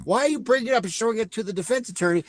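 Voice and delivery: baffled, demanding why the evidence went to the wrong side; incredulous disbelief. Retold or imitated. Recapping the movie, baffled by the plot, high and rushed. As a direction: pitch jumps up, racing through the questions in disbelief. Incredulous retold first reaction.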